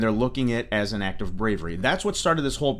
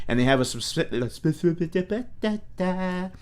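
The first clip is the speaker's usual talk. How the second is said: talking while chewing gum; words through a wad of gum. Real, not acted. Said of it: "quit chewing gum".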